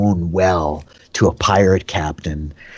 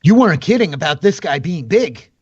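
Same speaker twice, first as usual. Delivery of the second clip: druid crying out; 6 semitones higher, faster than usual. Acted. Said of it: "he cries out in Druidic".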